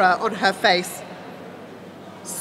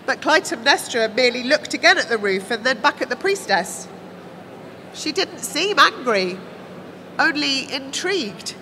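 ordinary delivery, nothing marked

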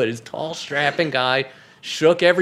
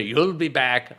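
imitated Scottish groundskeeper; quick sketch of a Scottish accent; 3 semitones lower, slower than usual. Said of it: "I'll do him Scottish".

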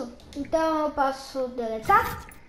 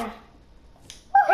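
excited whoop; 11 semitones higher than usual. Pretend. Kid cheering in pretend game.

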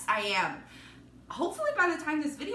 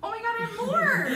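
surprised; 11 semitones higher, 5 dB louder than usual. Real, not acted. Surprise finding extra stickers.

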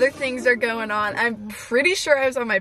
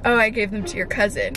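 understated, unbothered imitation of mom; mildly placid retold reply; calm; 2 semitones lower than usual. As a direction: break the news casually. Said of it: "calmly saying".

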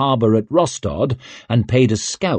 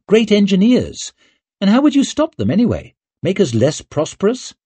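Savine arguing; 8 semitones higher than usual. A narrator's reading. Savine to her husband Leo, arguing with rising indignation. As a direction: rattle off the objections, rising in heat.

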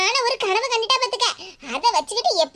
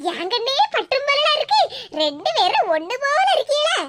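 laughing delight; 5 semitones higher than usual. Real, not acted. Delighted seeing look-alike sisters.

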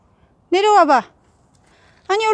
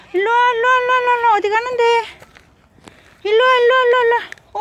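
high, sing-song calling to a pet; talking to a dog; 7 semitones higher, much faster than usual. Real, not acted. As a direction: coax the dog over in a high voice.

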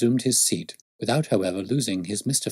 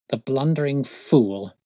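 slow, scornful exclamation; bitter; 5 semitones higher, slower than usual. Acted. Detective curses constable after leaving, slow bitter scorn. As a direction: spit it out with restrained bitterness. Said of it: "Holmes said bitterly".

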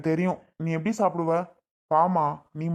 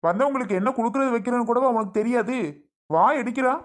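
raised-pitch, irritated telling-off; scolding; 4 semitones higher than usual. Acted. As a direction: scold her for neglecting a guest. Brother scolds sister over guests.

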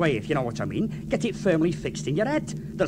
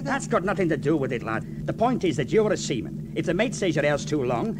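normal talking voice

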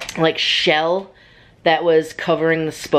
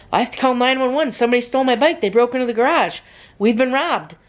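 raised pitch, hurried mock alarm; retold panic; 6 semitones higher, faster than usual. Girl telling family about stolen bike, retold panic. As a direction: re-enact a frantic report, higher voice. Acting out her panicked reply.

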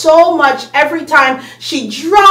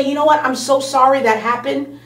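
soft answer; 3 semitones lower, 5 dB quieter than usual. Retold or imitated. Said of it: "turn away that wrath with a soft answer".

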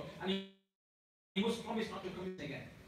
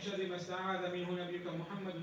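rapid Arabic dua flowing into pleading English prayer; supplication prayer; faster than usual. Acted. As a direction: lead the congregation in heartfelt dua.

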